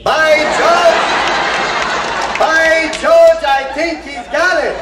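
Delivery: high, loud delighted cry; thrilled teacher cheering; excited. Acted. Professor delighted at success.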